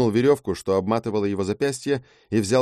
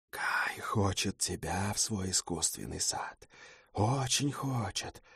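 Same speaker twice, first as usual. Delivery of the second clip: slow, much softer, hypnotic murmur; whispering; 11 dB quieter, slower than usual. Acted. Harpy Kai luring the hero, whispering in his ears. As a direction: seep into his ears slowly and softly. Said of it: "зашептала у меня в ушах".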